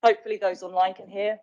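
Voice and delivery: muffled by face mask; speaking behind a face mask; talking through face mask. Real, not acted. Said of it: "it's actually really hard to talk with the mask on".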